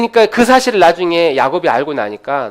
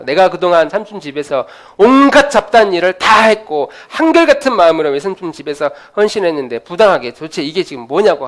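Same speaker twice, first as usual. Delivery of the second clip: 억울해서 따지듯 크게; 삼촌에게 항의하듯 목소리 높여; 분노한 야곱; 3 semitones higher, 6 dB louder than usual. Acted. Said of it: "화를 내면서". (삼촌에게 따지는 야곱, 화난 목소리)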